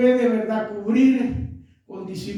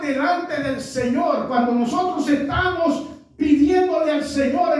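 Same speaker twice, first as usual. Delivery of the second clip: rising fervent preaching; 4 semitones higher than usual. Real, not acted.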